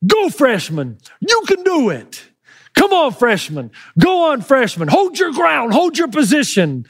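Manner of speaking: retold cheer from the stands, pitch jumping up; mock-yell encouragement to a wrestler. Father urging his freshman son on from the bleachers, mock yelling. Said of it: "So I started yelling".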